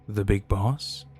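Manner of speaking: surprised echo. Acted. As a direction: repeat it back, unsure what it means. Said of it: "want you in the meeting with the big boss".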